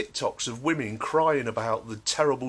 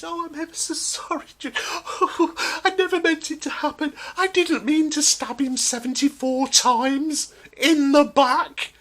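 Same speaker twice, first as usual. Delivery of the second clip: high falsetto mock sob to the judge, louder at the end; simpering fake-sorry woman pleading; high whiny parody of a tearful defendant; mock weepy plea; 13 semitones higher, 6 dB louder than usual.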